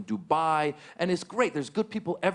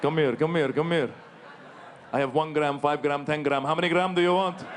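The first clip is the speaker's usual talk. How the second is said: shady dealer. Retold or imitated. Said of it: "the guy's".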